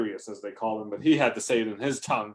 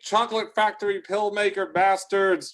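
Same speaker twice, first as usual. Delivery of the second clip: high, loud, hammed-up abuse; shouting out insults; 9 semitones higher, 4 dB louder than usual. Old lady out front shouting insults at a passing trucker, high mock yell. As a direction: yell it out at passers-by. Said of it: "who the hell's shouting that out".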